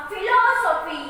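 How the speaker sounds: philosophy with LO leaned on; teacher's model philosophy, stressed on LO; stress on vowel. Shown as a demonstration. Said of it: "we are stressing with the vowels".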